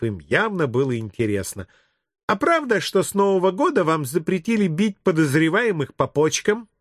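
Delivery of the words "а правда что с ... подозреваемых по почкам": lightly voiced high kid; inquisitive child. Child questioning the policeman on beatings, lightly voiced kid. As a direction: pipe up like a curious preschooler.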